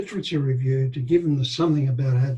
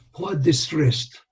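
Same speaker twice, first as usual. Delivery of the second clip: ordinary delivery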